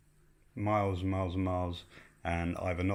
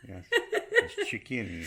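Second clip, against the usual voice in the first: put-on French accent; slower than usual. English word said in hope it's French, mock French accent. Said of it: "put a French accent on".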